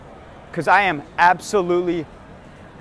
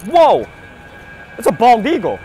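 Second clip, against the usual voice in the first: mock surprise; 3 semitones higher, 6 dB louder than usual. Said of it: "and you're like".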